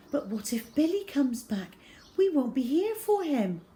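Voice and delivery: a mother begging not to abandon her son; anguished plea. A narrator's reading. Mother pleading with father to wait for Billy, anguished.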